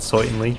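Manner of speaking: "certainly" said as "soytnly", the r dropped into an oy sound; light Cajun "soytnly" for certainly; Cajun-style certainly. Retold or imitated. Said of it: "It's a little bit like that".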